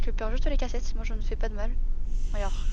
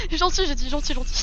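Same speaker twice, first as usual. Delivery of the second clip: squeaky praising a dog; 4 semitones higher than usual. Acted. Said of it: "Gentil le chien".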